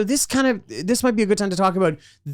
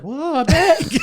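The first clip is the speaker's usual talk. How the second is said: higher, shouted whoa at a bag; hammed-up amazement; 7 semitones higher, much slower than usual. Imitating a hammy extra, shouting in mock wonder. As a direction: overact the discovery. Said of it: "this other person's like".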